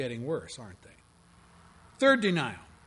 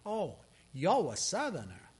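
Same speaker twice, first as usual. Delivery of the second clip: put-on Southern accent; 2 semitones higher, 4 dB quieter than usual. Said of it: "We know the accent".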